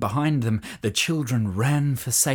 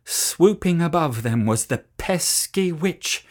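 ordinary delivery

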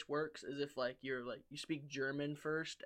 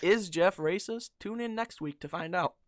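mock announcer teaser; 2 semitones higher, 7 dB louder than usual. Podcaster teases next week's episode, mock announcer voice. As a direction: tease it like a cliffhanger.

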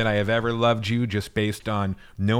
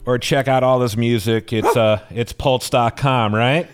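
excited plug; 5 semitones higher, 6 dB louder than usual. Real, not acted. Loud upbeat plug.

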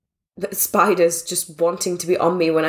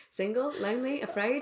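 quiet teasing echo; 4 semitones higher, 11 dB quieter than usual. Retold or imitated.

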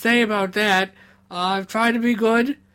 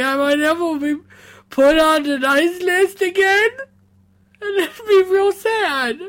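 emotional; 4 semitones higher than usual. Acted. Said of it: "in this state".

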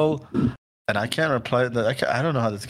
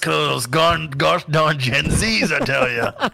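put-on slow, louder grumpy old man voice; mock old geezer grumble; 4 semitones higher, 4 dB louder, slower than usual. Complaining about kids as a grumpy old man. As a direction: grumble it like a cranky grandpa.

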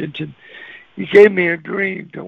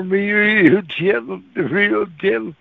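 drawn-out gentle; 2 semitones higher, slower than usual. Retold or imitated. Draws out words describing gentle knock.

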